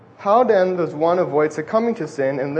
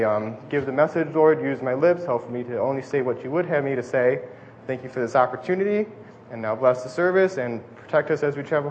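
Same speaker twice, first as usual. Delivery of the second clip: prayer; 2 semitones lower, 3 dB quieter than usual. Real, not acted. Preacher asks God to bless the message, quiet prayer. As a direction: pray softly and evenly, voice lowered. Let's pray.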